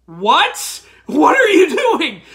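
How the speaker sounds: loud, high, laughing what are you doing; incredulous laugh-shout; shouted disbelief breaking into laughter. Real, not acted. Incredulous at Layla's plea.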